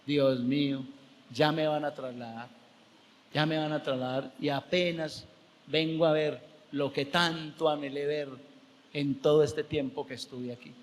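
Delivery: low, understated lament; retold tearful prayer. Pastor in pulpit to God before transfer, mildly tearful. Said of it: "lloraba y decía".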